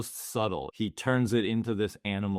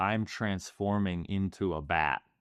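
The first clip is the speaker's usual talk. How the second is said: ordinary delivery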